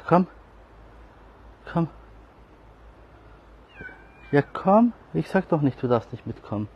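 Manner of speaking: high, loud call to a pet; high coaxing. Real, not acted. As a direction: coax the cat along, high and loud. (hohes lockendes Rufen)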